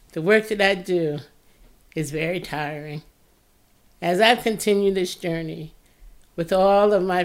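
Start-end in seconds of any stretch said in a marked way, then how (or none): 0.1-3.0 weary, worn-out voice; tired voice. Real, not acted. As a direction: let the tiredness drag the words. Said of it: "you can hear how tired my voice is".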